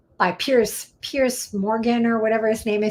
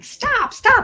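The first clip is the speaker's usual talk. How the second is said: much higher, loud shouted "stop"; yelling at the TV; 5 dB louder than usual. Retold or imitated. Yelling at the TV show, high and loud. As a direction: shout at the screen. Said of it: "I'm yelling at the T V".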